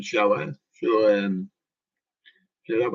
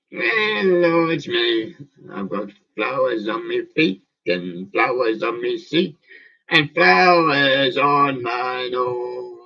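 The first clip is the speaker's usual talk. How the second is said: sing-song toy rhyme; 4 dB louder, slower than usual. Pretend. Toy bear recites a rhyme.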